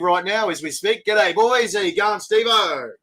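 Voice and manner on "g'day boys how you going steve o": cheery greeting. Real, not acted. Greeting Steve as he joins, cheery call. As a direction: call out a hearty hello.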